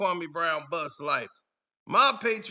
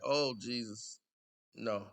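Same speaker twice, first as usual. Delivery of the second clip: much lower, soft mock dread; low dismayed reaction; 9 semitones lower, 8 dB quieter than usual. Reacting to the fans' news, low quiet dismay. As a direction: drop to a hushed, deep groan of words. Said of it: "I was just like".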